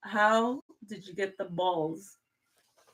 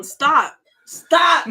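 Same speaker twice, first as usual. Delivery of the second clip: louder and higher, scolding stop; sharp scolding; 7 semitones higher, 11 dB louder than usual. Real, not acted. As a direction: snap at him to quit it. Scolding husband fiddling with phone.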